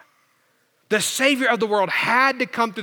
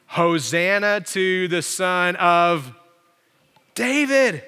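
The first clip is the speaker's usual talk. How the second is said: retold shouting; slower than usual. Children praise Jesus in the temple, retold shouting. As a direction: stretch the praise, then lift the last word. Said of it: "children who were shouting in the temple".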